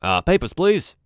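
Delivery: the please jumps up high and loud; a lightly voiced gate guard, rising sharply on please; guard curtly demanding papers; suspicious guard asking for papers. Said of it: "he's like".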